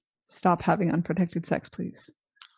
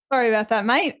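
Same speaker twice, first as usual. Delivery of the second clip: put-on Australian twang on the apology; a hint of broad Australian, playing it up; Australian accent. Co-host apologising for having no accent, in a light Australian accent. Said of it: "get my Australian accent going again".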